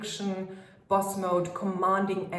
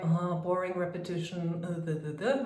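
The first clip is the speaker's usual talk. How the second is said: bored; 3 dB quieter than usual. Shown as a demonstration. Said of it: "instead of going like".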